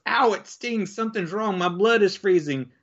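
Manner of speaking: high, pained, hammed-up whine; mock pained cry. Man bitten by ghoul cries in mock pain. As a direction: whine that it stings and burns.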